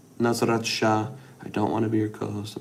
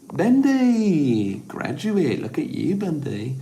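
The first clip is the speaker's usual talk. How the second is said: call out the name; 7 semitones higher, 4 dB louder, slower than usual. Real, not acted. Calling out to the pet.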